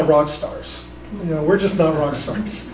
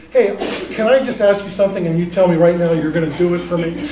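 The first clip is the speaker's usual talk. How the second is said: put-on wheedling kid. Kids asking parent a favor.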